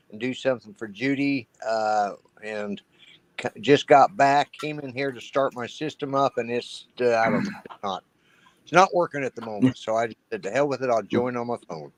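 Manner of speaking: phone line sound; talking into a phone; over the phone. Real, not acted. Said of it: "using my phone right now".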